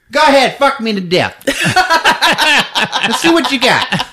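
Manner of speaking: high, teasing come-on, laughing through it. Retold or imitated. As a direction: purr a cheeky dare in a high voice. Host mocks Peggy's lines.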